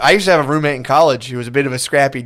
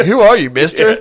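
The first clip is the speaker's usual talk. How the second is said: put-on higher, puzzled old bartender voice; mock bartender; 5 semitones higher, 4 dB louder than usual. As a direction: ask it like a confused fifty-year-old bartender. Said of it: "the fifty-year-old bartender's like".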